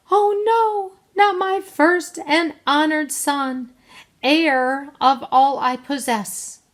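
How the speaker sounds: high, loud, drawn-out dismay; alarmed mother. A narrator's reading. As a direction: cry out in horror for your son. Mother learns son is in well.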